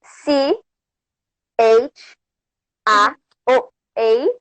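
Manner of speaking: letter by letter, pausing between each; spelling it out. Shown as a demonstration. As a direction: spell the words slowly, one letter at a time. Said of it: "It's A V E".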